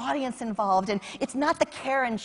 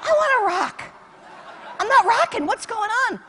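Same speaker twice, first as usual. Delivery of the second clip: frustrated whine; 10 semitones higher, 4 dB louder than usual. Retold or imitated. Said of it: "I wake up and I go".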